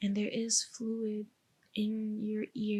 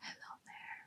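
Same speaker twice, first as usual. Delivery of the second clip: whispered, barely audible. Testing how much the listener can hear, whispering a few words. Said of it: "so I'm gonna do whisper some words".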